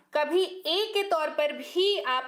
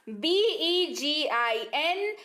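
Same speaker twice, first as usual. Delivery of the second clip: slow spelling; slower than usual. Shown as a demonstration. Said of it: "बिगिन यानी कि शुरू करना".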